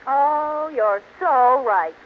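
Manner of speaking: slow, syrupy agreement; drawn-out fawning yes; gushing agreement. Acted. Fawning wife to Barton, slow syrupy agreement.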